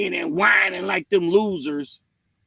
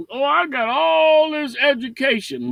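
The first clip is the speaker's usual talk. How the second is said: higher-pitched imitation of a braggart; mock bragging; 5 semitones higher than usual. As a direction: boast it mockingly, stretching it out. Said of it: "Be bragging about".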